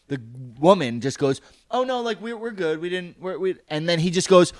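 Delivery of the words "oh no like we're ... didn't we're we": retold awkward smoothing-over; flustered reassurance. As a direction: imitate a woman softly backpedalling. Retold woman nervously smoothing things over.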